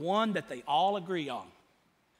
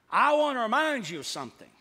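"I want to remind you of something" pushed out louder; firm, raised-voice emphasis; emphatic; 3 semitones higher, 5 dB louder, faster than usual. Shown as a demonstration. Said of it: "And it's emphatic".

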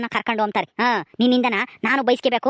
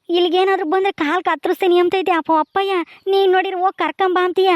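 agitated protest; 4 semitones higher than usual. Acted. Son arguing with mother, upset.

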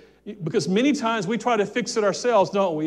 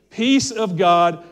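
slow and louder on peace; emphatic scripture; 6 dB louder, much slower than usual. Acted. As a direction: draw out peace of God.

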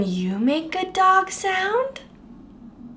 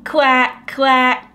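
mock duck quack; 4 semitones lower, 3 dB louder than usual. Shown as a demonstration. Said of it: "Can you say quack, quack with me?".

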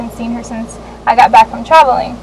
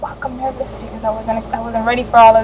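nervous inner thought; 6 dB quieter than usual. Retold or imitated. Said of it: "this is what I'm thinking inside".

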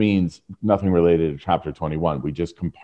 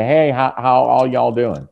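friendly greeting to group; 4 semitones higher, slower than usual. Pretend. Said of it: "then say".

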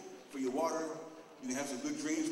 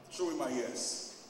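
slow ask; much slower than usual. Shown as a demonstration. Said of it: "I'll say".

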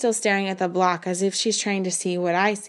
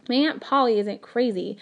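defensive; 3 semitones higher than usual. A narrator's reading. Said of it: "my mother says defensively".

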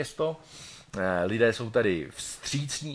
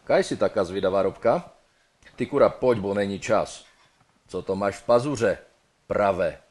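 rough Ostrava dialect, louder and coarse; 4 dB louder than usual. Acted. Dead man rushing his girl in Ostrava dialect. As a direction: bark it in broad Ostrava dialect. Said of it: "Ostravsky by to mohlo znít zhruba takto".

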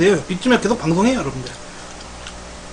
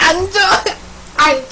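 playful tease; 12 semitones higher than usual. Pretend. Teasing viewers with food.

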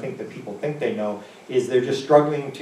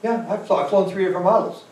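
put-on high old lady; 6 semitones higher than usual. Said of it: "And she said".

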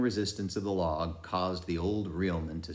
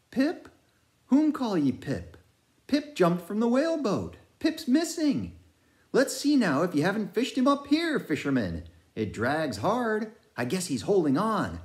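high, loud, excited sailor calling out; frantic old sailor; 7 dB louder than usual. A narrator's reading. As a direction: shout over the sea, searching for Pip. Narrator voices Manxman's frantic shouts.

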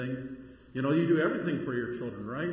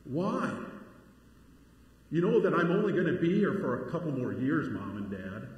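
put-on indignant teen protest, pitched up; mock teenage outrage, louder and higher; eye-rolling teenager; 4 semitones higher, 5 dB louder than usual. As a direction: imitate an exasperated teenager talking back to parents. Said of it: "they just roll their eyes and say".

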